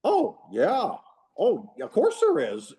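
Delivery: high-pitched mock agreement, put-on voice; Gantner. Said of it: "and Gantner like".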